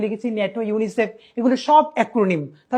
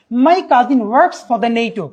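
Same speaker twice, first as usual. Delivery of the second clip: slow read-out; 4 dB louder, much slower than usual. Shown as a demonstration. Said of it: "একটি বাক্য এসেছে উপরের পরীক্ষাতে".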